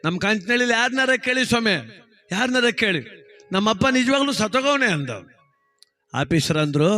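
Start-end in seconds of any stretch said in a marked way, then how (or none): 0.1-4.9 protesting clerk. Retold or imitated. Clerk protests he isn't lying.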